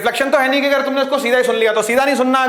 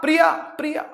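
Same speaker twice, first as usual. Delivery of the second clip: name called out, repeated like an echo; echo demo; 5 semitones higher than usual. Shown as a demonstration. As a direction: call it as if bouncing back from a mountain. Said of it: "हम बोलेंगे प्रिया".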